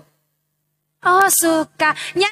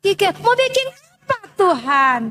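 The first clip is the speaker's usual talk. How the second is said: puzzled Obadiah; 4 semitones higher than usual. Obadiah questions God.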